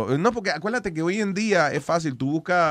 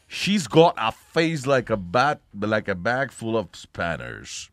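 mock English accent; 4 semitones lower, slower than usual. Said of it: "en Inglaterra".

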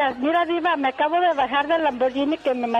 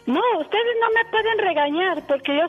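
scolding diabetic aunt; 5 semitones higher than usual. Retold or imitated. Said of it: "Entonces decía ella".

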